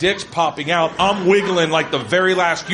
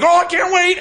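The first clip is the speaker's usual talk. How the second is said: squealing, higher, giddy fan voice with laughter; mock eager fans; 12 semitones higher, 3 dB louder than usual. Guys mocked as eager fans posing for a photo, squealing giddily. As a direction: gush like starstruck fans meeting royalty. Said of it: "They're like".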